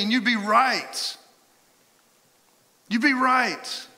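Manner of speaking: high, loud, drawn-out agreement; emphatic shout. Real, not acted. Preacher to congregation, shouting emphatic agreement. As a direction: belt it out to drive it home.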